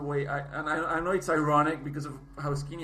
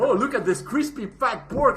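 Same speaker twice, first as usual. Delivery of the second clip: mock excited; 8 semitones higher, 7 dB louder, slower than usual. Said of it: "everybody's like".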